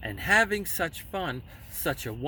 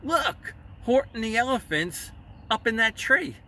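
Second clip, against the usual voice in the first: much higher, louder jeering shout; gleeful shout; 7 semitones higher, 4 dB louder than usual. A narrator's reading. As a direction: crow with delight to the others. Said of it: "they shouted with glee".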